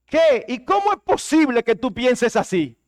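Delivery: retorting in acted shock; mock indignant outburst. Spouse retorting to a confession with mock indignation.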